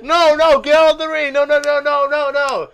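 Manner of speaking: high, loud mock panic; frantic referee. Referee ordering the wrestler out, frantic mock shout. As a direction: shout him out of the ring. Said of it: "the referee's like".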